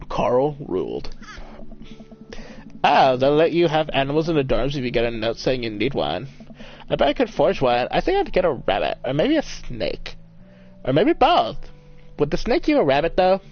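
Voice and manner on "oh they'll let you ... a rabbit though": lightly voiced scheming daughter; lively, swooping teen daughter pitching an idea to Dad; a hint of a playful kid; eager daughter. Voices the game's daughter character.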